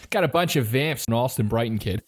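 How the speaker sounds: Boston bro voice; Boston accent. Pretend. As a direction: drop it like a Southie kid. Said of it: "Boston accent that we can do".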